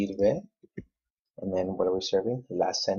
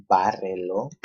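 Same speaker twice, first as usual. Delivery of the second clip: bárrelo with BÁ punched louder; stress on third-to-last syllable; 5 dB louder than usual. Shown as a demonstration. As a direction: hit BÁ in bárrelo. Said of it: "again, third to the last".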